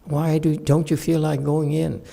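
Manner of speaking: gentle caring question. Shown as a demonstration. Calm parent asking son why he won't go in. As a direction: ask kindly, inviting him to talk. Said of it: "use it to say".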